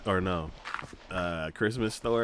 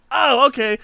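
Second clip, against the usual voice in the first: high loud okay then a loud whack; cook's calm okay; 13 dB louder than usual. Retold or imitated. Chef chopping the duck head off, loud and high. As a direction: shrug it off and chop. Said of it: "He's like".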